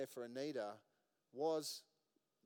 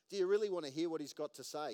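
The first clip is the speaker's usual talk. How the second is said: 1 emphatic question; 6 dB louder, faster than usual. Real, not acted. Preacher challenges congregation.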